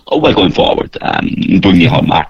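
lightly voiced Cork accent; a hint of a Cork schoolboy character, rolling through set phrases. Comedian doing his characters by school, light Cork accent. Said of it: "doing so many Cork characters".

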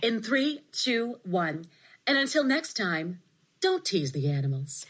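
crisp broadcast sign-off, anchor style; news anchor voice. Pretend. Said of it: "with your news anchor voice".

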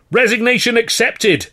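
very loud, very high; yell. Acted. Manager yelling back at the actor, furious. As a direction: slam it down. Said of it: "Carno yelled".

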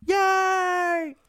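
lightly voiced Kermit; a hint of Kermit; Kermit the Frog voice. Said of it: "I want Kermit the Frog".

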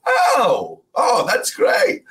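high, loud mock delight; delighted reaction. Locals learning the tourist is Scottish, delighted. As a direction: burst out with hammed-up relief and approval.

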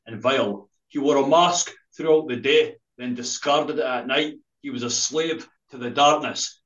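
slow, measured spoken-word poem reading; poem recital. Acted. Poet reading his poem to the podcast host, slow and measured. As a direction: read it out like a performance poem, slowly.

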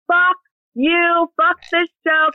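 high-pitched mock defiance; retold defiance. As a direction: re-enact a big verbal middle finger. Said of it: "me being like".

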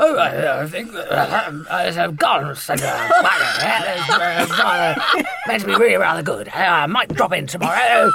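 casual aside. Retold or imitated. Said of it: "Dilly just sort of casually said".

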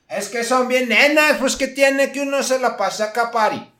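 hammed-up cholo sneer. Cholo mocking customers.

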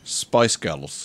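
put-on band name the Glaswegian way; Glasgow accent. Shown as a demonstration. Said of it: "say the band's name in a Glasgow way".

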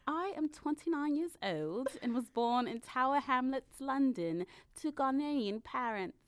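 lightly put-on London accent playing a guest. Host playing a British actress in a guessing game, light London accent. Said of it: "I'm so tempted to do this in an accent".

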